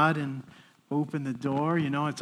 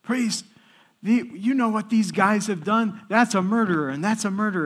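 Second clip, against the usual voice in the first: higher-pitched mock accusing rant; retold yelling; 4 semitones higher than usual. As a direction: mimic an inmate calling everyone out. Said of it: "as he's yelling at me".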